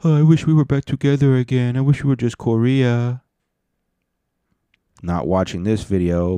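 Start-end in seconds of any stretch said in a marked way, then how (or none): 0.0-3.2 high, plaintive put-on lament; mock secret longing. Jealous ex secretly wishing they were back together, mock longing. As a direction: pine for your ex in a high voice. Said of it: "he secretly said".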